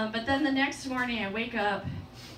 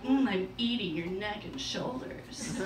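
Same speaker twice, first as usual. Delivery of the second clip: low, soft seductive purr; mock sexy voice; 4 semitones lower, 5 dB quieter than usual. Woman answering her lover in bed, mock sexy. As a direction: play at sultry talk, quietly. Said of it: "say that in a sexy voice".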